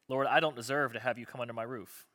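rushed through without weight; read too fast. Shown as a demonstration. Pastor rushes the centurion's line to the congregation, too fast. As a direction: hurry the line as a quick read. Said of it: "I just read that too fast".

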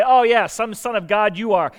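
a mocking bystander sneering; mocking jeer. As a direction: jeer at him like the crowd. Mocking crowd at the cross.

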